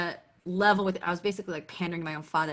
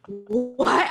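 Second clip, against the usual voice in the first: shocked what; 5 semitones higher, 4 dB louder than usual. Retold or imitated. Retold shocked reaction after gasp.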